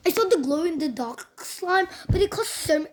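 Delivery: lightly put-on Australian accent; a hint of amateur Australian. Child vlogger showing slime glue to viewers, Australian accent. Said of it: "like, Australian accent for some reason".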